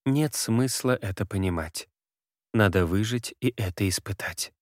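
hushed, distant spirit speaking. Acted. Ghostly woman continues.

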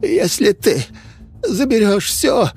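high, strained rasp; hoarse wheeze. A narrator's reading. Innkeeper rising from the floor, wheezing hoarse plea. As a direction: wheeze it out after the beating. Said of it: "он прохрипел".

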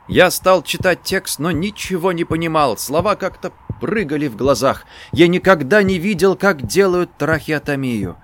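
plain reading voice

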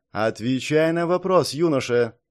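strict, slow demand like a teacher; lightly voiced stern teacher. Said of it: "Строго, словно преподаватель".

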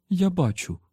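high-pitched female character; wife's voice. A narrator's reading. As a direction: pitch up for a testy reply.

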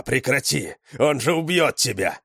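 urgent pleading. A narrator's reading. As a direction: beg your sister to stop. Пёс умоляет сестру остановиться. (тревожно, умоляюще)

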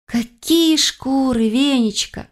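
slow, high-pitched words stretched by a yawn; yawning question. A narrator's reading. Sleepy heroine to her house spirit, yawning. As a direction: yawn widely through the question. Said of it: "широко зевнув, спросила я".

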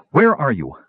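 mildly insistent challenge; demanding. A narrator's reading. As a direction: demand an answer from someone unseen. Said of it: "Kitiara demanded".

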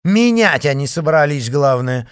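loud, high indignation; indignant outburst. A narrator's reading. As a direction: fume at their nerve. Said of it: "возмутилась дачница".

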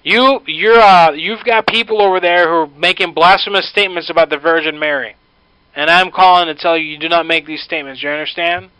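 stern scolding. Acted. Prank caller scolding woman sternly.

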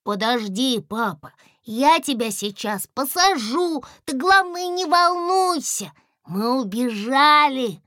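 high, loud eager chatter; a little one soothing his dad, high and eager; excited child. A narrator's reading. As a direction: reassure dad in a rush of excitement. Excited child reassuring father.

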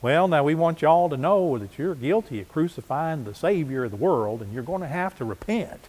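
put-on a light rural Galilean country accent, preaching; an easygoing country accent, lightly put on. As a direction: imitate country folks talking with a country accent. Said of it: "they talk with a, uh, country accent".

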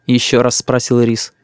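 plain reading voice

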